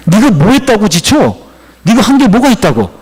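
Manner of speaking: acted scornful scolding; rebuking. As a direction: demand to know what he has even done. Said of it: "이렇게 책망하는 거예요".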